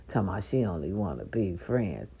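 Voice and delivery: unvoiced conspiratorial whisper. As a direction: whisper it like a secret. Secret aside about the girl.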